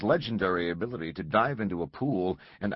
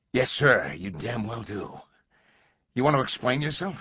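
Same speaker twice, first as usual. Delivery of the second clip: angry; 5 semitones higher, 4 dB louder than usual. Acted. Langdon angrily answers stranger.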